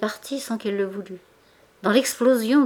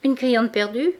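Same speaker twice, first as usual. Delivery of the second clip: louder, higher put-on cheer; forced bravado; 5 semitones higher, 5 dB louder than usual. A narrator's reading. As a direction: talk himself into courage. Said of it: "pour se donner du courage".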